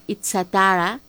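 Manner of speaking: itzatara said the Basque way, with a "ts" sound; Basque pronunciation. Shown as a demonstration. Radio host showing listeners the Basque word, itzatara pronounced with "ts". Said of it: "en vasco se pronuncia".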